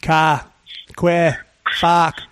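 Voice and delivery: Irish accent demo. Shown as a demonstration. Coaching a friend on the gangster voice, Irish accent demo. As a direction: lean on the A's in an Irish accent. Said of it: "It's all in the A's".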